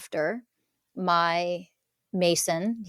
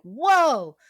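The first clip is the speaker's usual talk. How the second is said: higher, louder retold gasp of surprise; a startled whoa as people flood in; amazed whoa; 7 semitones higher, 6 dB louder than usual. Recalling clients flooding in, a high, loud surprised whoa. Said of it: "I was like".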